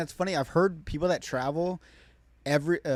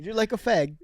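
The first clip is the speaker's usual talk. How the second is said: British accent; 6 semitones higher, 3 dB louder than usual. Shown as a demonstration. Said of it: "that's Australian".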